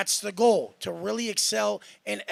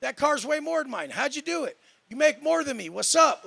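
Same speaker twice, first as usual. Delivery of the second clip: higher, eager voice of a humble admirer; humble asking; 6 semitones higher than usual. Pretend. Showing listeners how to humbly ask a richer man. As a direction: ask like you really want to learn. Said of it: "Be like".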